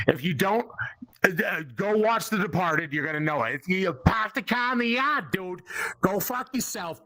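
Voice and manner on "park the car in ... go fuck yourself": thick Boston accent, R's dropped. Shown as a demonstration. Comic explaining his accent in Austin, Boston accent. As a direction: demonstrate the Boston accent plainly. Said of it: "Everybody knows the Boston accent".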